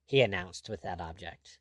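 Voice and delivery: ordinary delivery, nothing marked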